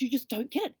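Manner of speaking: to the husband, gleeful high insistence; excited. Retold or imitated. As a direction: tease him with bright glee. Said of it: "bouncing with excitement".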